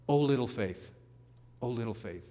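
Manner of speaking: tender, fading gently; endearingly. Shown as a demonstration. Jesus pulling Peter up, tender and endearing. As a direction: say it like a loving nickname. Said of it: "Very endearingly".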